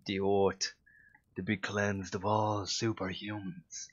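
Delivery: "oat" said for earth, with the TH dropped, slowly; Dublin pronunciation. Shown as a demonstration. Irish hero's line read with "oat" for earth, Dublin accent. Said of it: "the word earth, for instance, becomes oat".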